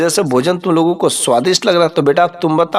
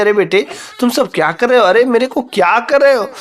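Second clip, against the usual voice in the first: higher, frightened plea from a bound mother; alarmed mother; 6 semitones higher than usual. Acted. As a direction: cry out to your sons, scared and pleading. Mother tied to tree. (घबराई हुई माँ की ऊँची पुकार)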